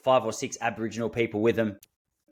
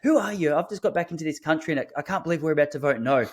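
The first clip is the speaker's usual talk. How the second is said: imitating an outraged woman, higher-pitched; retold scolding, incredulous and raised in pitch; indignant tirade; 4 semitones higher than usual. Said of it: "she just ripped me to shreds".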